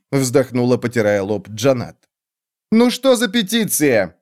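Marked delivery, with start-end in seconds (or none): 2.7-4.2 exclaiming. A narrator's reading. King demands to hear the petition, exclaiming. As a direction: draw the question out on a raised pitch. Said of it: "воскликнул Тигол".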